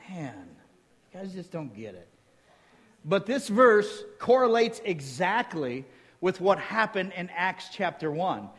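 ordinary delivery

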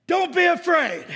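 high, booming prophet's command; loud, commanding film-epic Moses; Charlton Heston. Acted. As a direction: thunder it out over a crowd. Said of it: "my Charlton Heston voice".

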